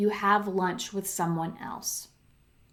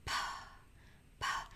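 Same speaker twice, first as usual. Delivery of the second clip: puffing breath sound; 17 dB quieter than usual. Retold or imitated. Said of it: "he kept doing this".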